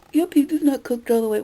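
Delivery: mock customer complaint, pushed out loud; imitating a Karen. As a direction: put on a lightly hammed-up fussy customer. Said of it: "they become a Karen and go".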